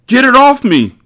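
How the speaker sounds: choked, very high panicked cry; garbled voice. Acted. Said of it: "Poke said in a garbled voice".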